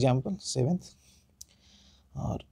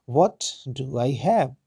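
British English, slow, stress on "What"; British sound; much slower than usual. Shown as a demonstration. Teacher shows students the British English sound. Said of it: "ये British sound है".

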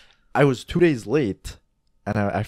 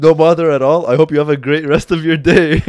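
overly polite reply; 5 semitones higher, 8 dB louder than usual. Retold or imitated. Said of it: "I said".

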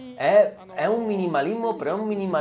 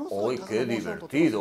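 mock delight; 8 semitones lower, 5 dB quieter than usual.

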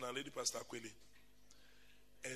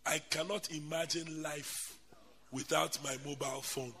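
soft quote; 4 semitones lower, 10 dB quieter than usual. Retold or imitated. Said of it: "he said".

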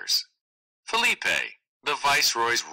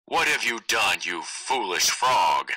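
threatening. Acted.

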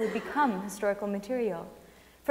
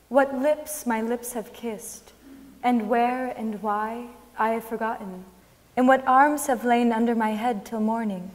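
poetry reading; 4 dB louder than usual. Acted. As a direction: let each line settle like a remembered ache. Reads Millay sonnet aloud.

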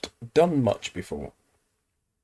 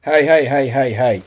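shouting hey; 9 dB louder than usual. Real, not acted. Shouting at game enemies.

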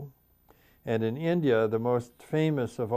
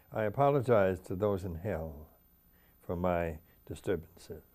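solemn verse delivery, settling down; poem recitation; 2 semitones lower than usual. Acted. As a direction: pause between lines and let the ending fall. Reads own poem aloud.

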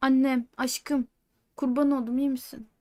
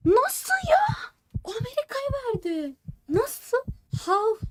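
stunned whisper, voice gone; whispered disbelief; shocked whisper; 12 semitones higher than usual. Real, not acted. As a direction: breathe it out in disbelief. Shocked at lost point.

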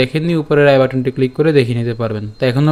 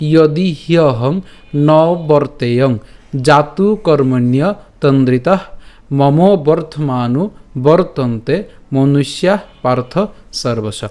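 slow, measured verse with clear pauses; shloka recitation; slower than usual. Shown as a demonstration. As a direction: recite the whole verse slowly for learners. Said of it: "আবার যদি প্রথম থেকে বলে". (পুরো শ্লোক ধীরে স্পষ্ট করে পাঠ)

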